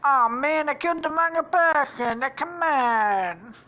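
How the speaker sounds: high, loud mock dismay; Luigi. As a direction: whine loudly, stretching the end. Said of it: "he's like".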